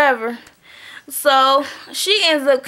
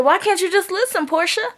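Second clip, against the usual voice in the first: higher-pitched imitation of a pleading coworker; exasperated plea; 6 semitones higher than usual. Coworker urging Portia to listen, exasperated plea. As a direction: plead it in a raised voice, lightly mocking.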